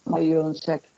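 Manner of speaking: breaking up over a bad connection; cutting in and out on a video call; choppy audio. Real, not acted. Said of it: "Se le escucha entrecortado".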